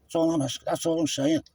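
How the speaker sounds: heated, pushy lecturing at the officer; aggressive. Real, not acted. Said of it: "I'm quite aggressive".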